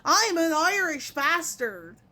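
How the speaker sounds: put-on slow, light Irish accent as a jokey stereotype; half-hearted Irish accent, said slowly in mockery. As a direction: tease like someone poking fun at the Irish, in an Irish accent. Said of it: "makes fun of them".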